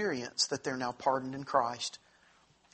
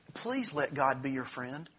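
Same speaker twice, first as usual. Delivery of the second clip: pleading preacher; 2 semitones lower, 4 dB quieter than usual. Retold or imitated. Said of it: "turns to people and says".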